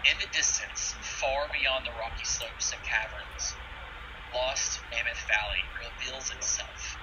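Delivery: slow, hushed scene setting; game master narration. A narrator's reading. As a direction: paint the vista slowly.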